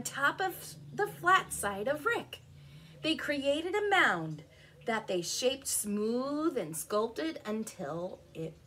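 animated picture-book narration; story reading. A narrator's reading. Telling children of the determined rocks, lively storytelling. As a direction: read it out clearly to young children.

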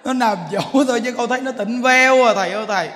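laughing complaint. Retold or imitated. Mocking the woman's complaint.

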